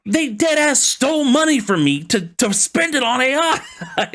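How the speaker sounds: high-pitched incredulous outrage, breaking into a laugh; indignant outburst. Real, not acted. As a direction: rant in laughing disbelief, voice shooting up. Indignant rant about stolen money.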